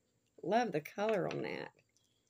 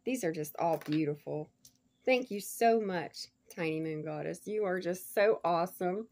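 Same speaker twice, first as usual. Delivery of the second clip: ordinary talk, nothing marked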